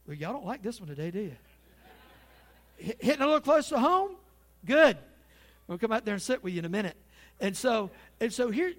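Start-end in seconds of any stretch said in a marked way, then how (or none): 2.8-5.0 loud, high jab at the congregation; teasing call-out. Real, not acted. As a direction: poke the crowd, louder and higher. Preacher teasing silent congregation.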